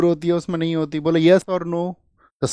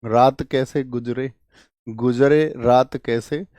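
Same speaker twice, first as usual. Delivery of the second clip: slow teaching drill; 2 semitones lower, slower than usual. Shown as a demonstration. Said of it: "गुजरने आए रात".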